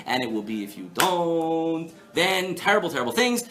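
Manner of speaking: mock-solemn scriptural warning, stretched out; proclaiming curses. Teacher giving the flip side from Torah, proclaiming. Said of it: "what the blessings and curses sound like".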